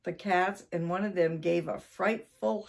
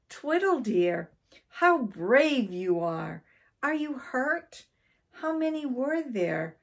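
gushing concern, pitched higher; admiring wife; 6 semitones higher than usual. A narrator's reading. Wife greets brave husband upstairs, admiring and concerned. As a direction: fuss over the returning hero.

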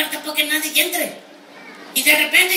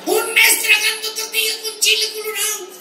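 exasperated shout; 6 semitones higher than usual. Real, not acted. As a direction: yell it out in disbelief.

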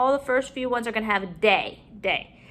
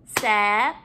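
syllable by syllable; 2 semitones lower, faster than usual. Shown as a demonstration. Teacher counting syllables in the word, broken up. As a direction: pause after each syllable of "September". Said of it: "break up our syllables".

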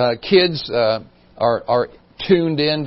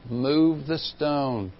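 Jesus commanding; 6 dB quieter, much slower than usual. Acted. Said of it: "Jesus arrives and speaks to them".

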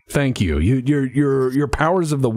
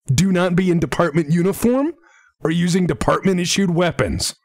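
mild acted yell, pitched up; raised-voice captain's order without full force; 5 semitones higher than usual. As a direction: call out one last order, half-yelled. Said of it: "she yells one more thing".

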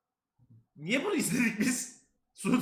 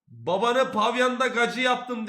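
slow, drawn-out quote; lightly voiced slow line; quoting slowly; 3 semitones higher, 6 dB louder, slower than usual. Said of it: "dedikleri bu".

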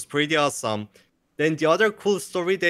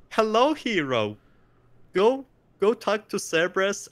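game quest voice; 5 semitones higher than usual. Retold or imitated. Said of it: "the storyline did, like, a three sixty".

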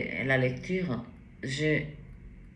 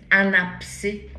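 "Un abcès" louder and higher, rising; emphatic repeat; 4 semitones higher, 6 dB louder, slower than usual. Shown as a demonstration. ("Un abcès" appuyé, montant)

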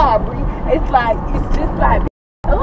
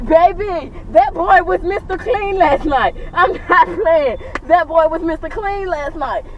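mock amazement; 4 semitones higher, slower than usual. Real, not acted. Mocking his cleaning spree.

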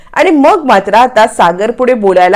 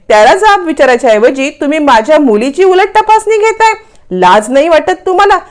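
shouting at them; 2 semitones higher than usual. Acted. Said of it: "ओरडून ओरडून सांगत असते".

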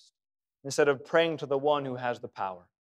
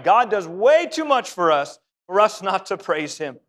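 louder repeat; 2 semitones higher, 5 dB louder than usual. Shown as a demonstration. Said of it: "I'll say it again".

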